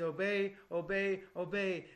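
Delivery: imitating a one-note preacher; mock-insistent repetition; insistent preaching. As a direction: drum the word out in even, separate beats. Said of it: "teaching or preaching that it just says".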